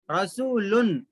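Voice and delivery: रसूलुन ending on a clear n; as written. Shown as a demonstration. Teacher reading the word as written, unmerged n. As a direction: close रसूलुन on n without merging. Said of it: "लुन है लिखा हुआ".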